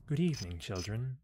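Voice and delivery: British greeting that starts high and drops; British accent. Shown as a demonstration. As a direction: try a lilting British accent. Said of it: "British accent".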